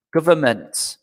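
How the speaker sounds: government said as guv-er-ment, with no N sound; pronunciation demo. Shown as a demonstration. Teacher showing online class how government sounds, with no N. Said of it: "it's basically like this".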